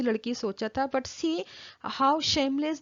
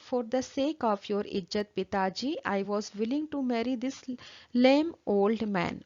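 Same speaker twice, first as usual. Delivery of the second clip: calmly; faster than usual. Retold or imitated. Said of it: "very calmly".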